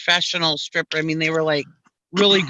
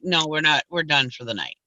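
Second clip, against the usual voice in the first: low, curt brush-off; mild mock grump, lower voice; grumpy clerk; 4 semitones lower, 4 dB quieter than usual. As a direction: imitate a grumpy clerk shutting you down. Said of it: "she was totally grump mode".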